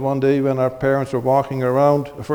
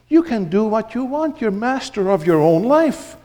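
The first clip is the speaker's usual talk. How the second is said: tempting devil voice, mostly higher; devil whispering; 9 semitones higher than usual. Acted. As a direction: coax like a sly tempter. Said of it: "the devil comes in and he whispers".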